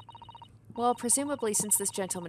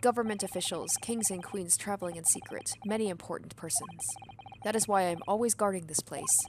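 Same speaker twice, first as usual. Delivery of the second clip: a lightly voiced broken-English sailor; hint of a burly foreign sailor; gruff sailor. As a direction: play a proud, touchy ship's crewman. Sailor explains the cabins.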